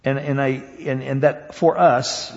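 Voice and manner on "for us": "for us" set apart, pitched higher; emphatic. Shown as a demonstration. Preacher stressing whom God's love is for, emphatic "for us". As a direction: press firmly on "for us". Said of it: "is emphatically, it's specifically".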